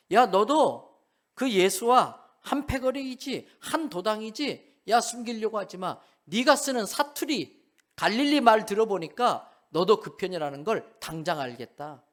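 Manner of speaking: corner him like a hostile crowd member; accusing bystander. Retold or imitated. Bystander confronting Peter, loud accusing voice.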